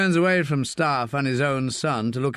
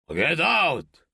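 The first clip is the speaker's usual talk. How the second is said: shouting; 4 semitones higher than usual. Acted. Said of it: "shouts Rubio".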